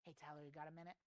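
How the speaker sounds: soft, unhurried talk with pauses; calm, paused pitch. Shown as a demonstration. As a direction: talk to a customer calmly, with pauses. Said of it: "if I go in and I say".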